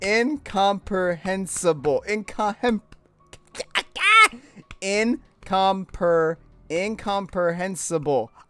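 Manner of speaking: slowly sounding out incomprehensible, syllable by syllable. Sounding out a hard word while reading: one syllable at a time. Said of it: "read it one, one syllable at a time".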